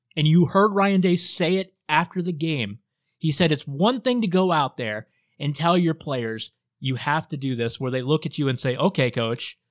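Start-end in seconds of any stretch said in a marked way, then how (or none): 8.8-9.6 mock sarcastic tone. Quoting a coach, the speaker voices players answering him, imitating a sarcastic reply.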